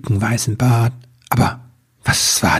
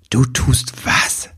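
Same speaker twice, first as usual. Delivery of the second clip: astonished; slower than usual. Acted. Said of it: "fragte Nibelwurz verblüfft".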